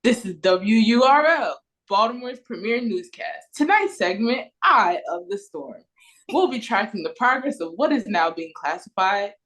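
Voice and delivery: brisk, punchy anchor read; hyper newscaster. Shown as a demonstration. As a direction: sell it like a big TV news anchor. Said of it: "a hyper version of".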